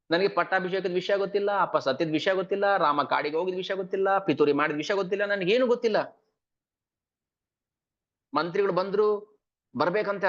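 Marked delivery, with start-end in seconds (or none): 0.1-6.2 higher pleading protest; pleading son. Acted. Bharata pleading innocence to Kausalya. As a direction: insist you knew nothing, pleading.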